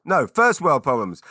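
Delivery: FIRST hit hard and loud; loud stress on "first"; self-correction. Real, not acted. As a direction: correct yourself, punching "first". Corrects his own slip.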